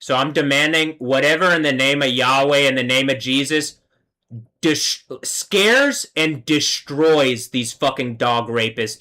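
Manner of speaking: declaring affirmation. Real, not acted. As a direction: command it like a prayer. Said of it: "let me affirm".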